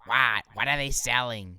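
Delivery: chocolate lady. Retold or imitated. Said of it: "the chocolate lady".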